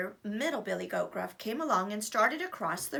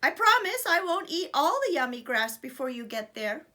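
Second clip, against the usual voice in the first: little goat voice; 4 semitones higher, 5 dB louder than usual. Acted.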